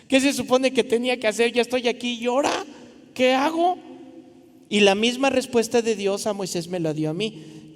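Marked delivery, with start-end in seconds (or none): 0.1-3.8 rising higher, fast bewildered questions; building mock panic to a high squeak; new missionary lost in his first week, panicking; retold panic.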